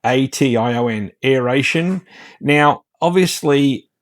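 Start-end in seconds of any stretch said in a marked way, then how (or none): 0.0-1.1 letter by letter, spelling to prove a point; deliberate letter-by-letter spelling. Shown as a demonstration. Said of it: "That's what it is". 1.2-2.1 "Aeration" as air-AY-shun, lifting at the end; three-syllable "Aeration", air-ay-shun; corrected aeration. Shown as a demonstration. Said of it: "That's what it is".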